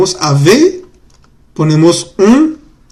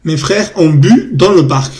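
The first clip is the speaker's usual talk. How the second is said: slow model sentence. Shown as a demonstration. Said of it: "teacher models the sentence slowly".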